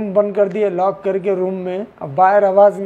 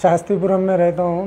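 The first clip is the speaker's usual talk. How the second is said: slightly raised voice for the reporter; a bit louder; faster than usual. Real, not acted. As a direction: repeats it a bit louder on request. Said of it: "जोर से".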